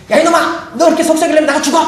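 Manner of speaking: high, rapid outburst at his son; hammed-up fatherly rage; angry father. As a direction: act out a dad losing his temper. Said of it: "막 화가 나 있으니까".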